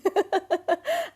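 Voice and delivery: high rising giggle; high laugh. Real, not acted. Laughing at herself.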